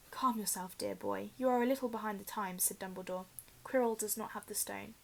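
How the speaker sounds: soothing. Acted. Dumbledore soothing Harry.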